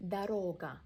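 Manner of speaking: "Дорога" with the second O long and loud, first O as A; "Дорога" said as "Дарога"; stress on second O. Shown as a demonstration. Teacher showing learners the stressed middle O. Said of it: "Second O is stressed".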